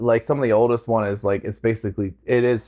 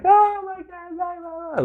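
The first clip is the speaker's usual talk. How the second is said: gushing goodbye. Retold or imitated. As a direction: imitate her high farewell, fading away. Imitates woman's gushing goodbye.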